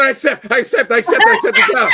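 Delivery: high, loud rush of excitement; re-enacted elated outburst; overjoyed acceptance. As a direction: shout it eagerly, tripping over yourself. Retold eager acceptance of job offer.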